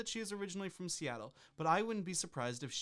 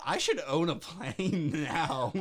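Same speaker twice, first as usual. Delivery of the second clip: slow dreamy; 7 dB louder, slower than usual. Acted.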